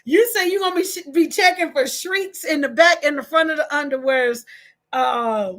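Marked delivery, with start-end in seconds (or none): 0.0-1.1 high burst of laughter breaking into words; real laughter. Real, not acted. Host laughing at her own misreading, real laughter. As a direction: crack up at the misread word. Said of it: "you said shrieks".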